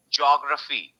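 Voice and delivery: "geography" joined up, stress on opening JOG; right stress on JOG. Shown as a demonstration. Teacher gives right pronunciation, geography stressed on JOG. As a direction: say "geography" as JOG-ra-fee in one piece. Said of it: "So this is the right pronunciation".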